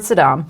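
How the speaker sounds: "Sodom" said like Saddam, suh-DAHM; mispronounced Sodom. Real, not acted. Host relapsing while reading, "Sodom" as suh-DAHM. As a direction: let the stress slip to the end of "Sodom". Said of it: "went right back to the mud".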